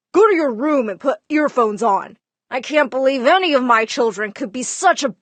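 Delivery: retold dad yelling. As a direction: bark it at a child blasting music. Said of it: "my dad would yell at me".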